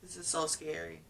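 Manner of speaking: whispered fear; hushed and scared. Retold or imitated. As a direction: breathe it out, frightened. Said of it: "It was just like".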